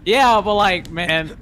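cracking voice mid-word. Real, not acted. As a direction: voice cracking high on man. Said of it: "Oh, that voice crack".

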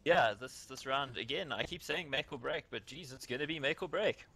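lightly put-on newscaster delivery. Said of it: "that was my T V newscaster voice".

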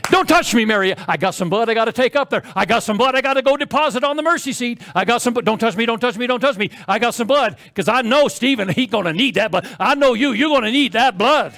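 lightly voiced Jesus in a hurry; quick, urgent warding-off. Jesus telling Mary he must take blood up, urgent.

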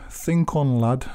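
lightly put-on Yorkshire accent; a touch of Yorkshire for the saying. Lecturer quoting a local saying to listeners, light Yorkshire accent. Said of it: "as they say in Yorkshire".

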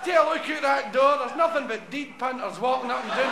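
Jesus moaning about his miracle shift; knackered Jesus. Acted. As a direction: complain like a worn-out worker. Tired Jesus complains.

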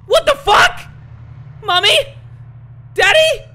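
very high, loud panicked cries; shrieking in horror. Acted. Gamer as the girl screaming for her parents in terror.

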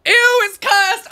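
high, loud, drawn-out ew; slow, high-pitched cry of disgust; disgusted squeal. Real, not acted. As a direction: squeal in revulsion. Recoiling from a cursed image.

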